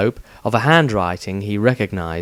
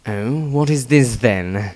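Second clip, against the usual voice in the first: feigned disinterest; slower than usual. Acted. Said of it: "tried to seem less interested".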